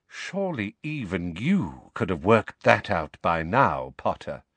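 scornful and cool; contemptuous. Acted. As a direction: look down your nose at him. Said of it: "said contemptuously".

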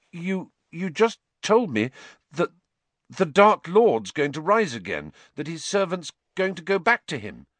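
high, rattled and insistent; blurting out what he heard; urgent. A narrator's reading. Harry shaken, urgent.

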